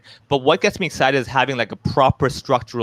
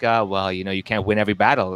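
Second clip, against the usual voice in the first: lower, deflated self-imitation; mock resignation; 4 semitones lower than usual. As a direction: imitate yourself shrugging off a letdown. Mocks own blasé reaction.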